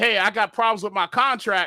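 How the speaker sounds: ordinary delivery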